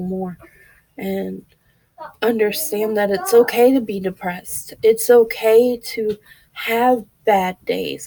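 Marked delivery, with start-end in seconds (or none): 4.8-8.1 slow, gentle reassurance; slow down and comfort them; reassuring. Real, not acted. Reassuring viewers who struggle, slow and gentle. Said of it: "reassuring the viewer".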